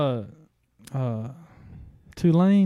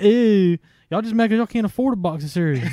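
mocking sneer; 5 semitones higher, 4 dB louder than usual. Mocking the Facebook haters.

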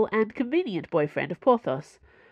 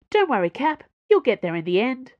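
cheerful; 6 semitones higher, 5 dB louder than usual. Acted. Planchet cheerful reassurance.

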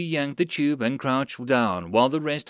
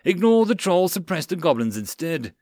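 raised, urgent command; battle order; 5 semitones higher, 3 dB louder than usual. Acted. Sergeant directs machine gunner onto goblins, urgent order. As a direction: order it firmly over gunfire.

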